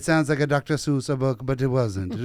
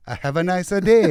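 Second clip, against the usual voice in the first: mock Italian accent; 4 semitones higher, 6 dB louder than usual. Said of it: "the Italian accent".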